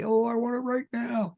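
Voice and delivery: high, loud, eager demand; impatient prayer. Retold or imitated. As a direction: beg for it now, impatiently. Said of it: "So be careful when you pray".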